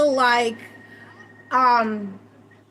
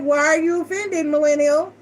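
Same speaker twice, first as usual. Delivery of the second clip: teasing; 5 semitones higher than usual. Retold or imitated. Teasing the boyfriend.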